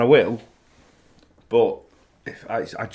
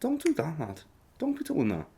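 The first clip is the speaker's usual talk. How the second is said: high-pitched Belfast accent scolding; 5 semitones higher, 7 dB quieter than usual. Shown as a demonstration. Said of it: "my Belfast accent".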